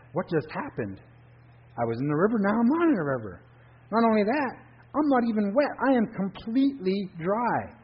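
put-on a boy who can't believe he's dry; amazed Drifter. Drifter marvels at being dry on the bank, amazed.

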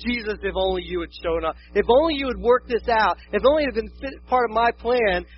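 mock reproachful pleading; imitated complaint. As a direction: protest insistently, building as you list regrets. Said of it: "Mary and Martha are like".

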